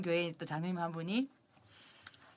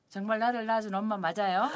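normal talking voice

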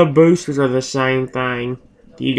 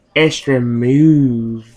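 mock-creepy announcer voice, lower; 4 semitones lower than usual. Speaker recording a game for YouTube mocks its announcer; imitating a creepy game announcer. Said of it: "Do you see how creepy he says that?".

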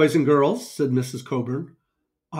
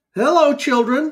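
very high-pitched put-on voice; 10 semitones higher, 4 dB louder than usual. Reading a children's story aloud, giving Booter's greeting in a high voice. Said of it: "Booter said in a high voice".

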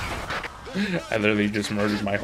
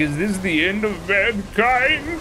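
mock crying in a sad old man voice, higher; 6 semitones higher than usual. Speaker mocking a sad old man character's line, mock crying imitation. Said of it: "He's literally shitting and crying".

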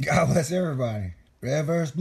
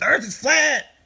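play-acted heated yell, loud, high-pitched screaming; 11 semitones higher, 5 dB louder than usual. Talking about astrology, quoting someone screaming at them: imitating someone screaming. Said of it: "someone screaming at me".

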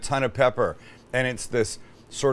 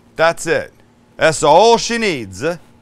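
loud, terrible, bad fake Italian accent; 4 semitones higher, 7 dB louder than usual. Cooking, finishing a dish with olive oil: terrible Italian accent. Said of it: "He said in his terrible Italian accent".

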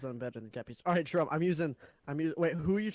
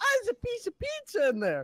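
super high-pitched, squeaky helium voice; 4 dB louder than usual. Retelling what a man said with the helium tank beside him: super high-pitched helium voice. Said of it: "in the super high pitch goes".

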